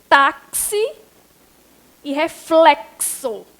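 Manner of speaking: "Táxi", "reflexo" with X sounded as ks. Shown as a demonstration. Teacher showing X with CS sound, "Táxi", "reflexo" sounded out. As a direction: separate the syllables of "Táxi" and "reflexo", X like ks. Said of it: "X com som de C S".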